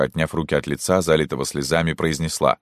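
plain reading voice

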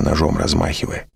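usual speaking voice

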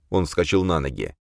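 plain reading voice

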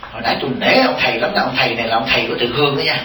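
quick, chuckling report to the wife; imitating a husband laughing as he tells his wife; laughing retelling. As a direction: rattle it off with a laugh. Doctor retelling the sermon to wife.

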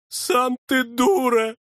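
high, slow retort; childish comeback; snapping back. A narrator's reading. Дьячок огрызается. (обиженно огрызаясь)

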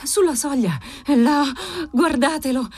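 emphatic and insistent; firm, energetic. A narrator's reading. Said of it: "disse ella fermamente, energicamente".

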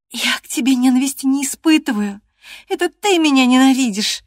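high, loud tearful cry; crying shout. Acted. Catherine in tears cries out that Hareton hates her. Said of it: "крикнула Кэтрин сквозь слёзы".

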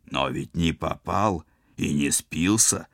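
slow, insistent point-making with weight on "не попал" and "не спился"; "не попал" and "не спился" set apart slowly and firmly; pressing emphasis. A narrator's reading. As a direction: press home "не попал", pause, then "не спился". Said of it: "с нажимом продолжил логическую цепочку".

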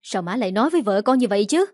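quick, indignant protest; mild hurried outcry in defence of his wife. Acted. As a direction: son objects fast to his mother's accusation. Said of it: "Liêm kêu lên".

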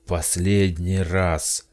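slow booming shout. Acted. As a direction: roar it like a furious giant. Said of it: "прокричал он".

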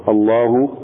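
الله with its final u drawn out, rising; stretched damma. Shown as a demonstration. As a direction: stretch the ending of الله until a waw appears. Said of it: "يطيل فيها الضمة". (الله بإطالة الضمة حتى تصير واوا)

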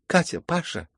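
calling out. A narrator's reading. Hostess to her maids in the doorway, calling out. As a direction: summon them from afar.

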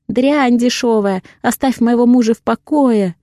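mocking a shrieking angry wife; man doing a woman's voice. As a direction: screech it like the furious wife. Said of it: "изображая жену любовника".

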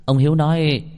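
usual speaking voice

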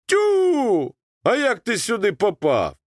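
put-on Ukrainian-accented high exclamation; Ukrainian surprise. A narrator's reading. Boatman Коляда amazed to find the boy, Ukrainian-accented. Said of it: "украинскому выговору".

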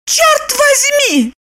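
very high, slow cry; Lipochka crying out. A narrator's reading. Lipochka shouting at Roman, shaking her fists. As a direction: draw it out very high. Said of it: "закричала она".

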